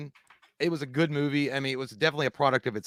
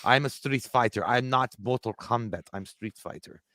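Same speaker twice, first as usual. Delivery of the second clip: mock Van Damme voice; 3 semitones lower, 4 dB quieter than usual. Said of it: "he was like".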